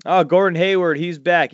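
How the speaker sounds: normal talking voice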